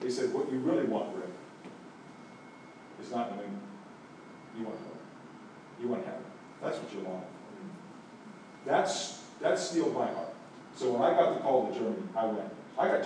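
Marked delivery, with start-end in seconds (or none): 0.3-7.2 voice of God. Retold or imitated. God's answer quoted softly.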